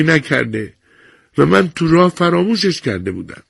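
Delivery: put-on small apologetic old voice; old woman excusing herself to the nurse, thin voice. A narrator's reading. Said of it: "با صدای نازکی گفت".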